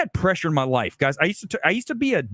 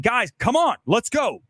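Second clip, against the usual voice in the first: demanding; 5 semitones higher than usual. Shown as a demonstration. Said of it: "Being demanding, saying".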